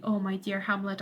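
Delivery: a hushed, apologetic "Oh, my dear Hamlet"; soft and sorry. Retold or imitated. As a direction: say "Oh, my dear Hamlet" softly, full of regret. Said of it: "shouting out to poor old Hamlet".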